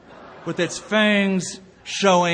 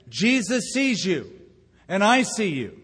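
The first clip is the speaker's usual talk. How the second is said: higher, mock parrot squawk; 4 semitones higher than usual. Pastor voicing the hidden parrot to the thief, raised squawk. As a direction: play the parrot calling out of the dark. Parrot speaks again in story.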